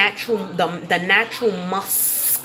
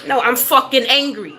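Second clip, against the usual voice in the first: louder, higher I'm fucking angry; real anger; 4 semitones higher, 4 dB louder than usual. Real, not acted. Owning her anger to the viewers, loud and forceful. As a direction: let the anger come through for real. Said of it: "There's power in my voice".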